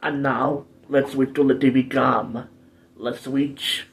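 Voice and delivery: lingering put-on Arnold-style accent. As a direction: slip into a rough mock Austrian accent. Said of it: "stop doing the accent".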